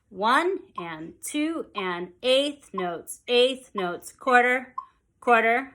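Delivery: slow, even rhythmic count; counting the beat. Shown as a demonstration. Teacher counting eighth notes for students, slow rhythmic count. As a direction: count evenly, one word per subdivision. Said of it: "So I'm going to count it".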